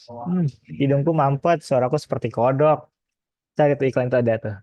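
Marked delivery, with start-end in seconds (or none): 0.1-2.8 slow stuffy-nosed ad voice; blocked nose voice. Retold or imitated. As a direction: imitate a cold-medicine commercial, congested. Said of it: "suara Pak Fai kayak gitu".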